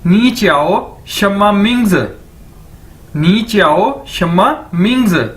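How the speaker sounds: "नी च्याओ शम्मा मिंग्स" word by word, ending on a fall; model sentence. Shown as a demonstration. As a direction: drill "नी च्याओ शम्मा मिंग्स" twice with a pause between. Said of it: "तो आप कैसे पूछेंगे?".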